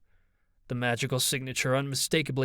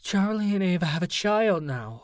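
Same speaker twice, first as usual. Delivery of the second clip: higher-pitched, urgent interjection; breaking in; 6 semitones higher, 3 dB louder than usual. A narrator's reading. Opal breaks into the fight for the baby, urgently. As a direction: cut across the quarrel in a raised pitch. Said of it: "Opal broke in".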